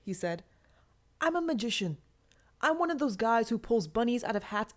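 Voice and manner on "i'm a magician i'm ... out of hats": raised, louder showman's brag; proud showman; bragging. Acted. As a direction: sell it like a stage magician. Cathect bragging about magic.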